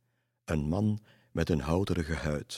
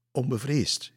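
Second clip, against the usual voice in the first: high, raised cry of bravado; exclaiming; 7 semitones higher, 4 dB louder than usual. A narrator's reading. Stip explains the word to Lisse, crying out. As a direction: call the word out, pitched high. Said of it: "riep Stip uit".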